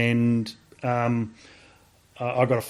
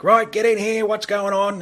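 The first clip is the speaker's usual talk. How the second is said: higher, commanding parade-ground call; booming sergeant major; 8 semitones higher than usual. Retold or imitated. RSM calling the soldier into his office, commanding. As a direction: bark it like an RSM summoning a soldier. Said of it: "He, he just had a big voice".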